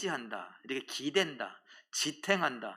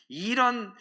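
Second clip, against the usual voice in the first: put-on swearing old man; 8 semitones higher, 6 dB louder, much slower than usual. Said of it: "막 욕을 하시면서".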